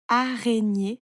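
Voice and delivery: "araignée" as a, rai, gnée; three separate syllables in "araignée". A narrator's reading. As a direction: stretch "araignée" into three beats. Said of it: "tu coupes le mot en petites parties".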